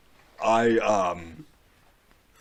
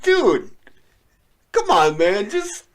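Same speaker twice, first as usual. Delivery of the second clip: loud urging; 5 semitones higher, 6 dB louder than usual. Retold or imitated. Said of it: "I'm like".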